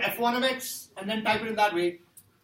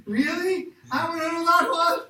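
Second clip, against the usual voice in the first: a 1; 7 semitones higher, 5 dB louder than usual. Retold or imitated. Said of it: "the guy was like".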